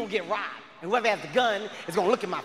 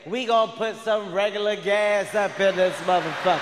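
put-on slow drunken declaration. Drunk girlfriend answering about gas money, very drunk voice. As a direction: slur it out slowly like a drunk. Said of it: "in a very drunk voice".

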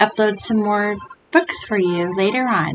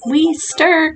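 higher-pitched eager reply; little monsters' cry; 7 semitones higher than usual. A narrator's reading. Two wee monsters answering their ma, high cry. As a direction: call back higher, as small monsters. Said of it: "cried the two".

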